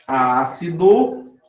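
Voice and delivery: Ácido drawn out, rising; Ácido slow with a rising end; slow demo. Shown as a demonstration. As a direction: stretch it as a prompt. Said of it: "repeated cue".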